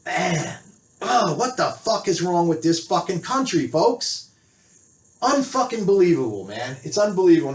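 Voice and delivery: real exasperated anger; angry. Real, not acted. Fed-up man ranting to viewers about the country, angry. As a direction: vent in angry disbelief. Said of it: "Sorry, I'm fucking angry".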